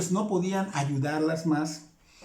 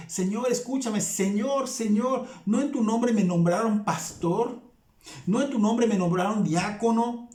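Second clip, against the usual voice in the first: higher, begging plea of a rejected preacher; desperate pleading, higher; insistent pleading; 4 semitones higher than usual. Retold or imitated. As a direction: list your service and beg, insistent. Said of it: "con una insistencia".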